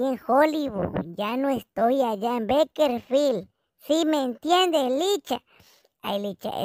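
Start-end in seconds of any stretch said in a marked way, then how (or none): none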